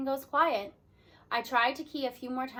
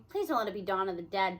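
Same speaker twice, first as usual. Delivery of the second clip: groaning; 5 semitones lower than usual. Acted. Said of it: "Barnstorm groans".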